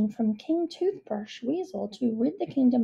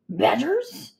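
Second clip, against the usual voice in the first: surprised; 5 semitones higher, 5 dB louder than usual. A narrator's reading. King incredulous at badgers.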